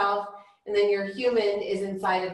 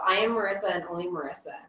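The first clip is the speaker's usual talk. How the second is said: calm affirmation; 2 semitones lower, 3 dB quieter, much faster than usual. Shown as a demonstration. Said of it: "I'm gonna say physical body".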